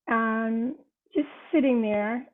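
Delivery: real tears welling as she tells it; tearful. Real, not acted. Tearful while recalling daughter's grief.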